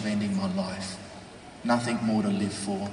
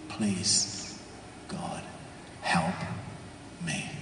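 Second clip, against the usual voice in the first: desperate prayer; 7 dB quieter, much slower than usual. Acted.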